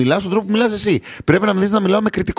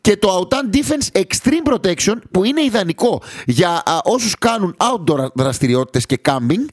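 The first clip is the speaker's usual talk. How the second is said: lightly voiced product pitch; ad read; 2 semitones higher than usual. Host reading the sponsor ad, light ad-read tone.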